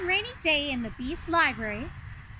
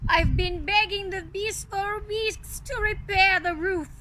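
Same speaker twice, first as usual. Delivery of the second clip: Lumiere voice; 5 semitones higher than usual. Acted. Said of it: "he replied".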